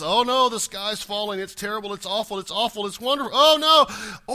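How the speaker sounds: a hammed-up alarmist wail; Chicken Little panic. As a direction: play a fretting Chicken Little crying that the sky falls. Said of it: "Chicken Little approach that says".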